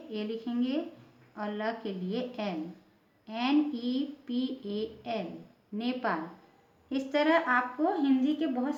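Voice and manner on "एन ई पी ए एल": letters spelled out slowly one by one; slow spelling. Shown as a demonstration. Teacher spelling a word slowly for students. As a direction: dictate each letter slowly for the class. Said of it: "teacher spells out letters".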